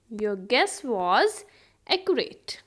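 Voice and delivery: measured words, pause before the last; slow teaching repeat. Shown as a demonstration. Teacher repeats the guessing example for learners, slow and split. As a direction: set "accurate" apart after a short pause.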